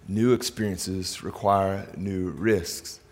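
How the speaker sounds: New experiences require new risks spelled out very slowly, word by word; a deliberate, slowed-down repeat for note-taking; slow dictation pace. Shown as a demonstration. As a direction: say it slowly so they can write it down. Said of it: "I want you to write down in your notes".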